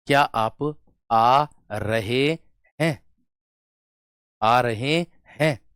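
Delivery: "क्या आप आ रहे हैं" with every word stretched; very slow, each word held long and set apart; drawn-out words. Shown as a demonstration. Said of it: "शब्द को खींच करके बोल दिया".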